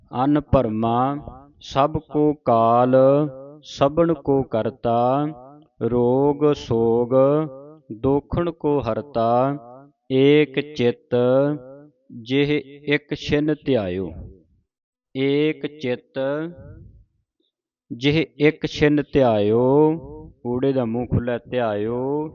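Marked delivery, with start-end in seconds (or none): 0.1-19.6 slow, measured teaching recitation; scripture recitation. Shown as a demonstration. Reads scripture for students to follow. 21.4-22.3 ਧਿਆਇਓ with a long open o; lengthened ending. Shown as a demonstration. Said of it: "ਲੰਮਾ ਕਰਕੇ".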